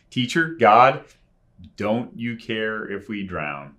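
rising anguished plea to God; crying out. Retold or imitated. Believer crying out to God over troubles, pleading. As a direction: cry out like the frightened disciples. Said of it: "we cry out just like those disciples".

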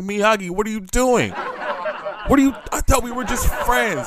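high, breathless, playing coy; playing coy while being kissed on the neck; mock flustered protest. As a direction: protest while secretly loving it. Acted flustered protest during kiss.

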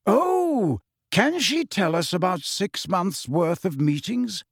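put-on calm, politely curious old wizard; lightly voiced wise headmaster; Dumbledore voice.

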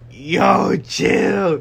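sudden high startled shout; yelling out. Retold or imitated. Alone in the dark room, a startled shout at the door. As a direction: yell at whoever opened the door. Door opens at night, calling out.

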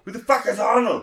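high indignant put-on voice, laughing; high goofy voice cracking into a laugh. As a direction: squeak it out, half laughing. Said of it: "you sound like Arnold".

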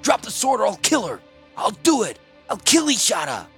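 high, loud, desperate threat; snarling shout. A narrator's reading. Captive threatening to kill his hostage, snarling shout. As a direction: snarl like a cornered beast. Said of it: "Snarling like a cornered beast, Klars shouted".

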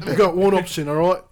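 amateur British street accent. Shown as a demonstration. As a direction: push it out in a British lad's accent. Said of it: "British, British accent".

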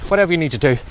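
breathless, walking into strong wind; talking while short of breath. Real, not acted. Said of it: "pardon me, I'm out of breath".

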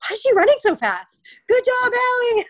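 high, loud mock cheer; cheering coach. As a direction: call it out like an excited coach.

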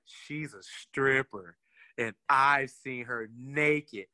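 slow, lightly voiced smug friend. Antonio explains to the teller, a lightly voiced slow, smug answer. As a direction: drawl it out, a touch pleased with himself. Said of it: "He was like".

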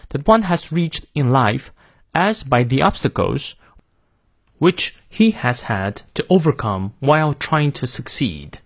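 careful, slowish British model reading; British pronunciation for learners; British accent. Shown as a demonstration. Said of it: "看一下英式发音". (英式发音慢速领读)

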